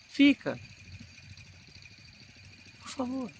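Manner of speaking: big theatrical cry begging her to stay; projected stage plea. Shown as a demonstration. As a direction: project it for a theatre without a microphone. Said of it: "no teatro eu teria que impostar um pouco mais a voz".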